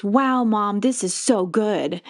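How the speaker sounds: hear the love behind it; grateful praise. Retold or imitated. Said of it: "the energy in it was".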